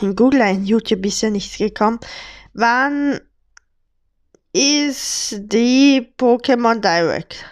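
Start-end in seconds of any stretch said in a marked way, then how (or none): 2.5-7.4 slow whisper while typing. Real, not acted. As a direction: read the search out in a whisper. Whispers search query.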